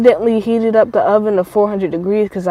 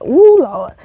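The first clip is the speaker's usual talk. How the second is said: retold delight; 4 semitones higher, 5 dB louder than usual. Retold delight at tasting cheese.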